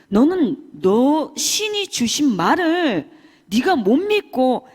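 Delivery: loud, slow-building tirade, then sharp commands; furious scolding. Retold or imitated. Shaman teacher ranting at her disciples, furious scolding shout. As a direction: tear into the disciples who doubt their spirit. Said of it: "패악질을 하면서 내가 뭐라 했던 게".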